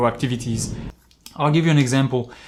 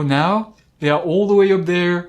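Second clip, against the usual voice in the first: light, easy walkie-talkie voice; just chat into the radio; relaxed radio talk; 4 semitones higher, 4 dB louder than usual. Retold or imitated. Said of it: "talk that way".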